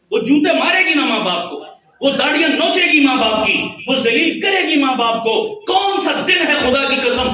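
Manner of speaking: impassioned pulpit preaching; fiery preaching. Acted. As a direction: preach it hard, building to a shout. Preaching at full force.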